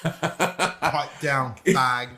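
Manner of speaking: insulting British neighbor; British accent. Acted. Host playing the rude London neighbor, British accent. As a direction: put on a comic British accent. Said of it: "your British accent".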